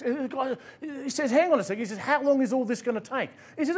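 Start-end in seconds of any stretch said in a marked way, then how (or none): 1.3-1.8 a light put-on Mexican accent, pitched higher; a touch of Mexican accent, easygoing. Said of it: "I apologise for the accent". 2.0-3.3 a light put-on Mexican accent, pitched higher; a touch of Mexican accent, easygoing. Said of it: "I apologise for the accent".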